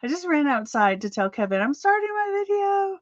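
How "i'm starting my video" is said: retold yell. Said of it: "And I yelled and yelled".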